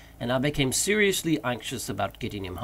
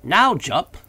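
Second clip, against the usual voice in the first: loud, raised, eager cry; high, loud excited address; much excited; 6 semitones higher, 9 dB louder than usual. A narrator's reading. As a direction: call up to him with excitement. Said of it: "evidently much excited".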